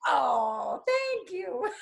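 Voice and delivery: loud, high delighted thank you with a laugh. Real, not acted. Thanking Mark for pretend flowers, loud and delighted. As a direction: gush over the flowers.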